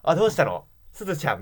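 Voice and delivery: breezy, friendly phone answer; frank and casual. Retold or imitated. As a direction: play it casual, like old friends. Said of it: "フランクな感じでいこうと思ってね".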